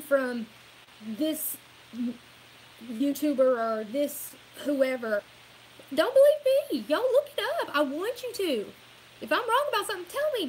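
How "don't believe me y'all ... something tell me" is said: much higher, louder urging; fired-up challenge. Real, not acted. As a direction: dare them to check you. Challenging viewers to check.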